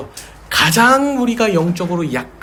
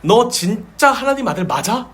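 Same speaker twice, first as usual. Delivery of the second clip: mocking doubt; 6 semitones higher than usual. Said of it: "사탄이 그 말씀으로 흔드는".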